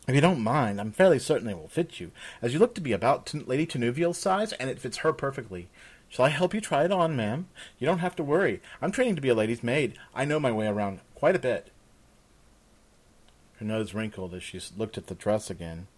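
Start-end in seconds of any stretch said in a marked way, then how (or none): 0.1-11.7 lightly voiced chatty servant girl; young maid, eagerly reassuring.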